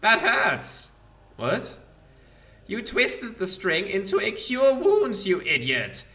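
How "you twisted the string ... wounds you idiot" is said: rough, higher undead skull; mocking ancient lich scolding; Demilich voice. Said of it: "Demilich voice".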